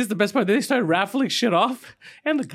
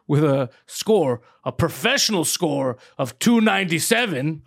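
mock announcer; slower than usual. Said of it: "And it goes".

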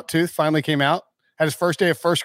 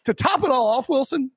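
heated rant; 6 semitones higher than usual. Real, not acted. Ranting at the coach.

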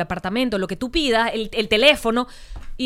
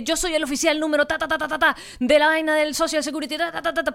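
retahíla acelerada de oficial telefónico, más aguda; imitando habla rapidísima; 4 semitones higher than usual. Retold or imitated. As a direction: imita a un oficial soltando datos de carrerilla. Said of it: "pero súper rápido hablaba". (imitación de habla atropellada)

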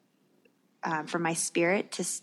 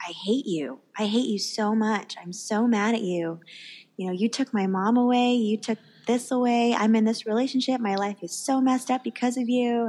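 mild mock yell, building higher; retold angry yelling; 4 semitones higher than usual. New believer railing at God in her head, mild retold yelling. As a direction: let the accusations mount without truly shouting. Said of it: "I was yelling at him".

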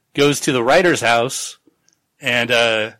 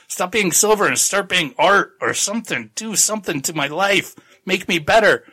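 higher-pitched mock plea to an object; mock pleading; 6 semitones higher than usual. Tagomi urging the pendant to fix his life, mock pleading. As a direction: imitate someone begging for a change.

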